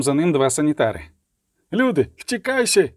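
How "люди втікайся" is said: high, panicked soldier's cry; roaring panic. A narrator's reading. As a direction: cry out for everyone to flee. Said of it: "ричав солдат". (панічний крик солдата)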